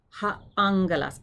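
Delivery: "angelas" as ANG-gelas, ng at the back of the throat; "ha angelas", first syllable ringing on ng; ng sound. Shown as a demonstration. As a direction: say "angelas" with a hard g after ng. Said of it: "makes that ng sound".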